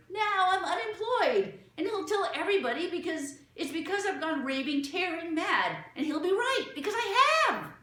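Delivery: high, loud, frantic rush of despair. A narrator's reading. Mother panicking to the children, high and loud. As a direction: wail it out, near hysterical.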